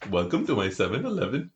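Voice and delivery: put-on Indian accent; caricatured Indian shopkeeper accent. Shown as a demonstration. Friend asked for another accent, mock Indian shopkeeper accent. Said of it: "I just went indie".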